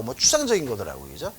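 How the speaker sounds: ordinary talk, nothing marked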